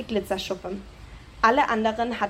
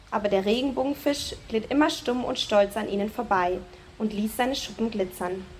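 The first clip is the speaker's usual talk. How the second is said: ordinary delivery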